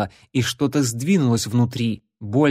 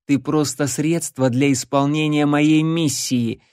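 clearly spoken; 3 semitones higher than usual. Acted. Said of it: "внятно сказал он".

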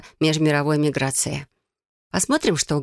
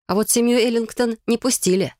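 usual speaking voice

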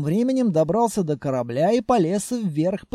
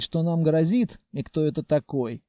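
ordinary delivery, nothing marked

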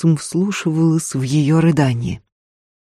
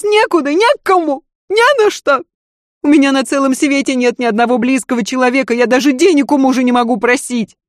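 very high, hysterical cry; nearly shrieking with despair; hysterical lady; 9 semitones higher than usual. Acted. Lady cries out she has nowhere to go, hysterical.

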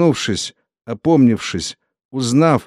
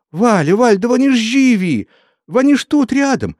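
joyful wailing; 12 semitones higher than usual. A narrator's reading. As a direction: burst out with joyful news. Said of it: "заголосив".

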